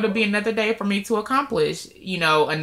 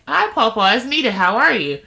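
higher, sing-song hello to grandpa; upbeat retold greeting; cheery phone greeting; 4 semitones higher than usual. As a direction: greet your grandpa sweetly, pitched up. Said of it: "and I'm like".

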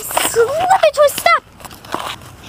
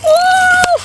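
surprised oh; 7 semitones higher, 4 dB louder than usual. Acted. Character stops spinning.

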